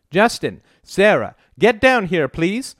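high-pitched call up the stairs; crying out. A narrator's reading. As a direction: summon the children from below. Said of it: "cried out".

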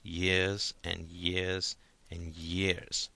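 slow, quiet murmur of a father. A narrator's reading. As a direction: draw the years out softly, almost to himself. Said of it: "murmured his father".

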